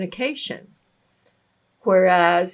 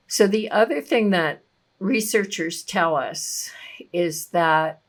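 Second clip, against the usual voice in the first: whisper. Acted. Unvoiced whispered aside in talk.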